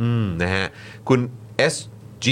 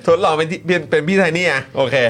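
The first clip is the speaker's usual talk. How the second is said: higher mock farang accent Thai; foreigner broken thai; 5 semitones higher, 3 dB louder than usual. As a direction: play a foreigner mangling Thai. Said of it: "มันต้องสำเนียงฝรั่งกว่านี้อะ".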